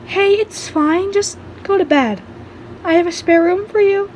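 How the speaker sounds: high-pitched, gently coaxing reassurance; reassuring. A narrator's reading. Offering shaken guest a spare room, reassuring.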